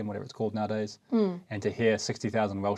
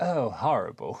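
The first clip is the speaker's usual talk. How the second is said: put-on proper, posh English accent. Retelling a story about checking into a hotel in England, in a proper English accent. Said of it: "proper English accent like you just did".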